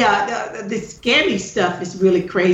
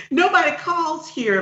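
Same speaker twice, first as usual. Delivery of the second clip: slow mock retort; 10 semitones higher, slower than usual. Retelling reply to scam caller.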